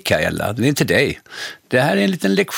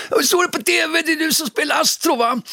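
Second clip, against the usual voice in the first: put-on high, eager child's question; kids' voice. Schoolkid on the subway asking the TV star, high eager voice. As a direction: play an excited kid asking.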